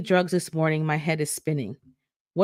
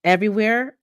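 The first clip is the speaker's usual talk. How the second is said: rising, higher, disbelieving question; stunned; 5 semitones higher, 4 dB louder than usual. Acted. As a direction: ask it in shocked disbelief. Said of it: "I ask, stunned".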